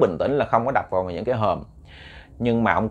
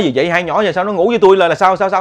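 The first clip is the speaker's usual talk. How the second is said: higher, louder, startled questioning; jolted awake and confused; startled confusion; 6 semitones higher, 7 dB louder than usual. Retold or imitated.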